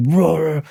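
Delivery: brief mock metal growl; imitated metal roar. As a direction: throw in a quick roar, metal-style. Imitates metal singing after clean singing.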